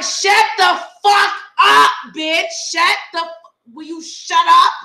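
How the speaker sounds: high, forceful re-enacted yell; retold yelling. Telling how she yelled at a panicking friend, exasperated shout. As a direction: yell it in exasperation, stretching the first words. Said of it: "I yelled at this woman so loud".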